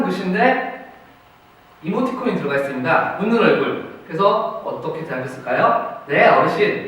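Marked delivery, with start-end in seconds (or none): 6.1-6.9 cheerful, eager yes sir; happy, willing reply to the master; bright and happy. Shown as a demonstration. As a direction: answer brightly and gladly. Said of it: "이렇게 밝고 행복하게 대답을 했을 겁니다".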